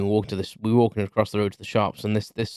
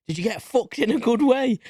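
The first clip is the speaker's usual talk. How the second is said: put-on little old lady; 13 semitones higher than usual. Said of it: "this little old lady came up".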